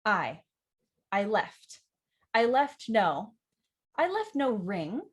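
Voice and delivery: deliberate word-by-word memorizing drill; word by word build. Shown as a demonstration. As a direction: build the line up one word at a time. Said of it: "So the word by word technique is this".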